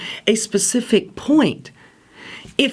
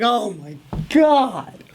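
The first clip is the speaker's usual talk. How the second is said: aghast; slower than usual. Retold or imitated. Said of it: "he's like".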